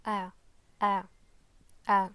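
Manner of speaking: "A" as a short open vowel, started low in the throat; three separate, forceful bursts of "A"; demonstrated throat sound. Shown as a demonstration. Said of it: "it's pronounced from".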